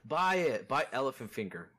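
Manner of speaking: laughing shady dealer. Acted. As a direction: push it like a hustler. Continues dealer pitch.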